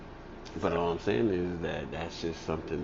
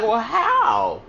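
pressing; 5 semitones higher, 8 dB louder, much slower than usual. Retold or imitated. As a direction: hammer the question, letting it fall. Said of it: "She was like".

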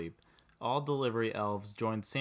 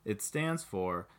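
proud. Acted. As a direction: unveil the name with pride. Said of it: "Esther said proudly".

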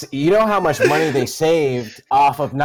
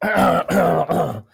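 higher-pitched mock British greeting; joking fake British voice; British accent; 5 semitones higher than usual. Shown as a demonstration. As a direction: put on a silly British accent. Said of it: "Jacob, give me a British accent".

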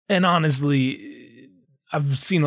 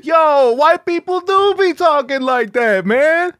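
much higher, louder, slow impressed fan; awed audience member; 12 semitones higher, 6 dB louder, slower than usual. Retold or imitated. Audience member hyping Paul, much higher and louder. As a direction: gush like the joke changed your life. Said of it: "audience reacting".

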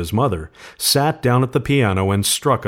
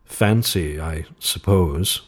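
slow and hesitant, dropping lower; 4 semitones lower, much slower than usual. A narrator's reading. Soldier pondering why he keeps the paw, slowly. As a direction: draw it out, pausing between the words. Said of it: "he said slowly".

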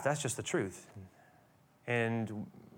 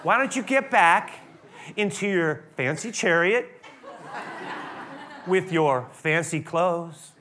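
slow mocking taunt; slower than usual. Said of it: "Took a little liberty there".

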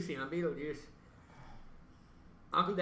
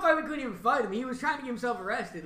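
usual speaking voice

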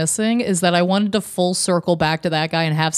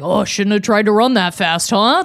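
mock taunt. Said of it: "somebody came up to you like".

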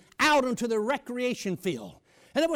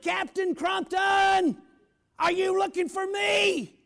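yelling across the yard; 7 semitones higher, slower than usual. Retold or imitated. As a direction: call out to a man a hundred yards off. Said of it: "So I yelled".

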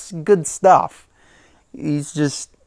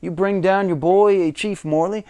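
imitating The Rock; 4 semitones higher than usual. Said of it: "Rock said".

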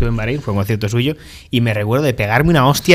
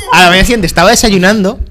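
half laughing, higher and louder; 6 semitones higher, 6 dB louder than usual. Real, not acted. Laughing while confessing to friends he cried. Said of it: "me puse a llorar".

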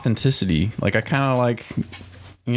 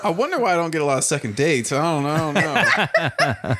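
laughing; 4 semitones higher than usual. Real, not acted. Self-mocking joke.

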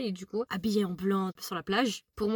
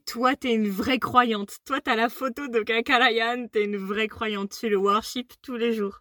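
slow, teasing mock sermon; slower than usual. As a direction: tease her slowly and solemnly. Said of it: "Je me suis dit". (ton moqueur et lent)

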